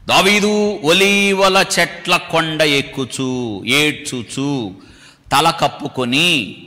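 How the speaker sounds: slow, drawn-out Bible reading; measured pulpit recitation; scripture reading. Acted. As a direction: read the verse out slowly, stretching the words. Reads scripture aloud in drawn-out style.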